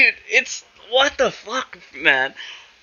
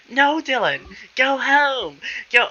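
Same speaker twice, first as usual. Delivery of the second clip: lightly put-on higher voice for the uncles; a hint of a mocking uncle voice, pitched up; retelling the uncles turning him away, mock higher voice; imitating the uncles' weird queer voice; 5 semitones higher, slower than usual. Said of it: "And that, like, weird queer voice".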